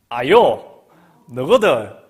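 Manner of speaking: loud Gyeongsang teacher calling the class; Gyeongsang dialect. Retold or imitated. Teacher calling pupils in loud Gyeongsang dialect. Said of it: "제가 경상도 말로 할 거예요".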